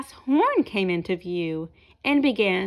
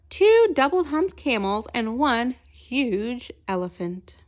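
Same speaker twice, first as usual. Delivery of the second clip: lively storybook narration; reading to children. A narrator's reading. Reading a picture book aloud to children, lively storyteller voice. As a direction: tell it brightly to young listeners.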